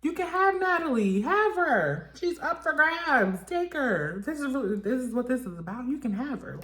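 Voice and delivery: high, loud and dismissive; mock Scotty handing Natalie over, high and dismissive. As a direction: toss her away in a high sneer. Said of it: "Scotty's just like".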